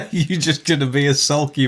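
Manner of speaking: laughing through the words. Real, not acted. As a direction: tease while laughing. Teasing, laughing at friend.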